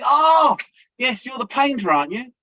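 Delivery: receptionist's mock chirpy remark. Retold receptionist mistaking him.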